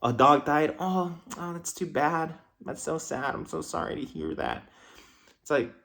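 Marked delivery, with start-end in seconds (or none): 0.8-4.6 higher, sing-song put-on pity; mock fake sympathy. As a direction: mimic hollow condolences, higher. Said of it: "People are so fake".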